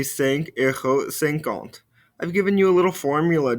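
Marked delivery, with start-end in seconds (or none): 0.0-1.8 cinq euros cinquante said slowly and clearly; slow model. Shown as a demonstration. Teacher modelling the price answer slowly. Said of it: "And then to respond".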